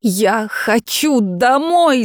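high, slow, drawn-out cry for home; girl crying out to the dragon that she wants home; desperate shout. Acted. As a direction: wail it out. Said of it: "закричала Нейзи".

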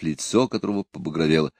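ordinary delivery

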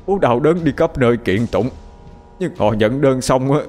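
a father howling his grief at the sky; wailing to heaven. A narrator's reading. Grieving father cries out to heaven for justice, anguished wail. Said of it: "gào lớn".

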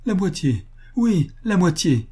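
high, insistent promise; fervent. A narrator's reading. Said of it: "répéta-t-il avec ardeur".

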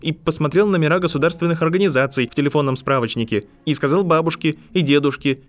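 indignant rant, words tumbling out; angry outburst. A narrator's reading. Harry rages at McGonagall, high loud fury. Furious boy defends his parents.

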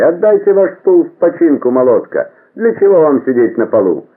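very high, ringing street call; high-pitched tradesman's holler, sustained then dropping; chair mender's cry. A narrator's reading. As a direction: call up to the housewives for work. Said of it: "плетельщики стульев кричали".

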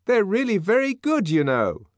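high, loud nervous coaxing; nervous offer. A narrator's reading. Man offering almonds to the savage, nervous smiling coaxing. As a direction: placate him with a smile. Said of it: "with a rather nervous smile of propitiation".

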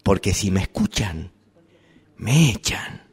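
soft, confidential murmur. Acted. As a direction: say it low so nobody hears. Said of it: "Le digo esto en voz baja".

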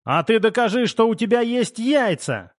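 high, cheeky dare; shout with a smile. A narrator's reading. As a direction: goad a friend with a grin. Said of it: "крикнул я, улыбаясь".

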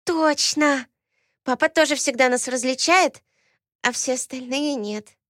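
put-on high childish voice, pleased; a small girl happily agreeing; delighted little girl. Twin agrees with Alaena, delighted childish voice.

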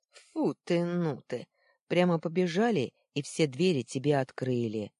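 loud sarcastic mockery; snide jeer. One boy loudly jeering at Luna's demand. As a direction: sneer at her as a wise guy. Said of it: "съехидничал один из мальчишек".

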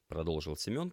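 usual speaking voice

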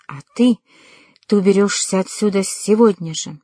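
"а ты" set apart, then a pause before "ты уберёшься"; deliberate pauses, weight on "а ты" and "сегодня же"; measured, spaced-out words. A narrator's reading. Father banishes his daughter, spacing out "ты уберёшься отсюда сегодня же". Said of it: "Последние слова он повторил с расстановкой".

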